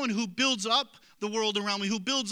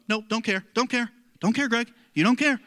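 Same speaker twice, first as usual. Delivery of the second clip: louder, building self-coaching chant; self-coaching pep talk; 5 dB louder than usual. Shown as a demonstration. Preacher demonstrating how he coaches himself, a rising chant. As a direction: pump himself up, each time louder. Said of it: "I literally coach myself".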